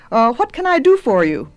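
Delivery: politely asking, voice lifted and projected; polite witch. A narrator's reading. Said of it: "asked the witch politely".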